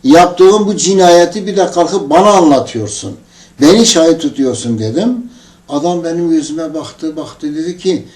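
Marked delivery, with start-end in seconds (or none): 0.0-4.8 retold indignation, slightly raised; indignant retold accusation; angry rebuke. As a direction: confront him with mild outrage. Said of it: "bu sözlerinden dolayı çok sinirlendim".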